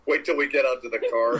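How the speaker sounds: mock mother holding herself back; restrained anger, imitated. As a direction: act out a threat kept under control. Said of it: "as if she's restraining her, herself".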